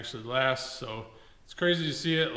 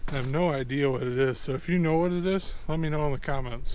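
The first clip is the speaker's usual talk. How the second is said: loud, raised voice against the wind; shouting over wind; 2 semitones higher, 8 dB louder than usual. Real, not acted. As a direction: shout to be heard in the gusts. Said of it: "Sorry about the wind noise".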